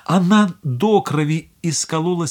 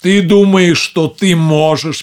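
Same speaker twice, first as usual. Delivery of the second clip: put-on old witch; 2 semitones higher, 6 dB louder than usual. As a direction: sneer a threat at her. Witch threatens girl.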